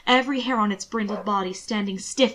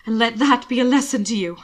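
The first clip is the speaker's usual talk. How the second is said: warning; 2 semitones higher, 5 dB louder than usual. Acted. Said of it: "Will warned him".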